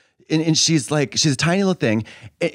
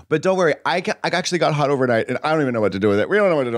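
mock hot comic; 2 semitones higher, much faster than usual. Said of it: "And I'm like".

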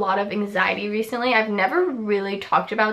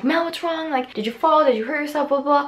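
lightly voiced, higher worried parents; a hint of parents panicking; imitating worried parents; 5 semitones higher than usual. Parents asking their crying daughter what's wrong, lightly mimicked.

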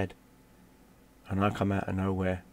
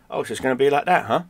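loud, higher, acted-out challenge; retold defiant challenge; 5 semitones higher, 8 dB louder, faster than usual. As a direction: throw it out as a mock dare to the whole gang.

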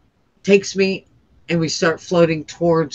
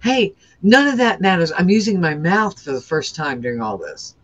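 a mild retold yell, pitched up; pleading with the passing woman in a lightly raised voice; 3 semitones higher than usual. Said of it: "I start yelling".

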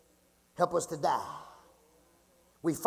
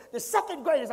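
THE SECOND GREATEST pitched up and stressed; emphatic; 6 semitones higher than usual. Real, not acted. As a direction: hammer home "second greatest" in a raised pitch. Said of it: "I'm emphasizing it 'cause".

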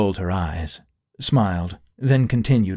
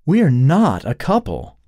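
much higher, louder, slow firm correction; quick denial; 8 semitones higher, 6 dB louder, slower than usual. Acted. Allie correcting Sharita, firm and quick. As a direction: set them straight at once. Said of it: "Allie was quick to point out".

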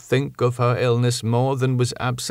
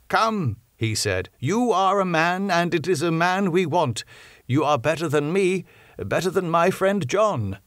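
put-on older professor's voice, raised and pressing; Van Helsing, urgent; 8 semitones higher than usual. Professor tells doctor the patient needs blood, pressing old professor voice. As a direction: alarm held under control, pitched up.

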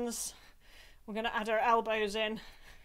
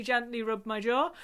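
jaw rubbing. Shown as a demonstration. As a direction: voice wobbling from jaw massage. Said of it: "letting the sound out there".

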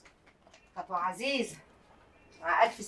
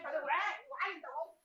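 normal talking voice

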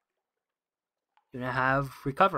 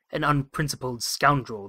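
snapping; 5 dB louder than usual. Acted. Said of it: "the Admiral snaps".

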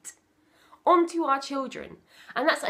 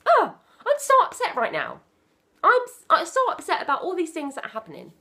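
higher, louder voicing of an upset child; mock upset child; 6 semitones higher, 6 dB louder than usual. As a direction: play the child pouring out distress. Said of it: "come to and say".

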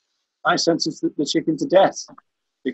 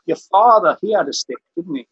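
put-on Rhys Vaughan's Welsh accent; 3 semitones higher than usual. Lawyer questions a farmer in court, theatrical rough Welsh. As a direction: imitate a Welsh barrister's leading question. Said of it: "I can't really do the Welsh accent".

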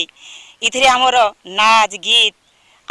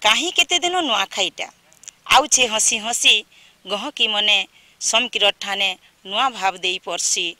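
short measured verse lines with pauses, closing repeats softer; poem recitation; 4 dB quieter than usual. Acted. Second poet sharing a Nuakhai welcome verse with viewers, measured recitation. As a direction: recite line by line, easing down on the repeats.

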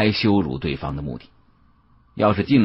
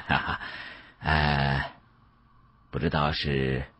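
laughing; 6 semitones lower, 10 dB quieter, slower than usual. A narrator's reading. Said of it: "笑着说".

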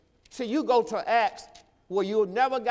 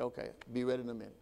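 quick and easy; 7 semitones lower, 10 dB quieter, much faster than usual. Retold or imitated. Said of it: "That's how she talked to me".

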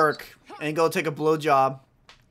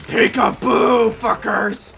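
taunting sing-song; 5 semitones higher, 5 dB louder, much slower than usual. Real, not acted. Ambush taunt.

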